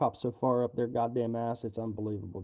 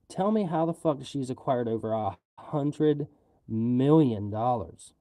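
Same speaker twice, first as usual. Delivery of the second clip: demanding; 4 dB louder, slower than usual. Real, not acted. Angry rant demanding answers.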